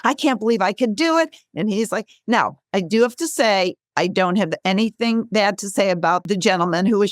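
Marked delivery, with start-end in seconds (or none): 0.0-1.3 starts high and thrilled, then settles; freaking out. Retold or imitated. Guest retelling a thrilled Oprah, a touch amazed at first. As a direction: gush like a star who can't believe it. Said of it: "Oprah's freaking out".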